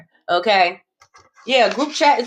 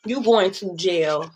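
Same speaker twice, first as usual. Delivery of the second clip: "You going to jail" said slowly and low; slow, ominous verdict; slow warning; 5 semitones lower, 3 dB quieter, slower than usual. Shown as a demonstration. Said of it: "repeated slower".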